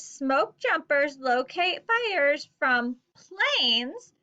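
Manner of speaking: put-on example sentence read slowly for children; slow read aloud. Shown as a demonstration. Teacher reads example sentence slowly to students. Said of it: "our example says".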